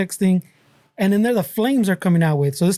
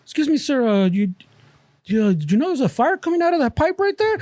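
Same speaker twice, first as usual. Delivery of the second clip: polite hipster voice; 3 semitones higher than usual. Retold or imitated. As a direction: play an oblivious polite neighbor.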